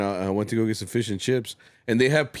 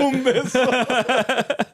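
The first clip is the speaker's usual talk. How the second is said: laughing slow flirt; 12 semitones higher, 3 dB louder, much slower than usual. Retold or imitated. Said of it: "You're like".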